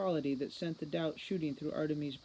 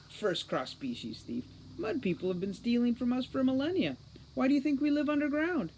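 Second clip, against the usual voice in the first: scornful snort; 9 semitones higher, 3 dB louder than usual. Acted. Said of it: "Captain Short snorted".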